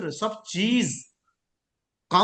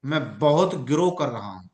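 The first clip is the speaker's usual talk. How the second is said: positive rewording; 5 semitones lower than usual. Shown as a demonstration. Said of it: "इसको transform ये करना है".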